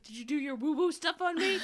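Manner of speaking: high, loud, playful demand; mock accusation. Woman calling the teacher next day, mock accusing. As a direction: blurt it in comic suspicion. Retold accusing phone call, joking.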